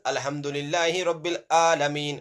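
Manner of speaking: chanted, plain A opening ALAMEEN; Hamza reading. Shown as a demonstration. Teacher alternating readings for pupils, plain-vowel ALAMEEN. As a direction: keep ALAMEEN's first A unsqueezed. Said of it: "See the difference?".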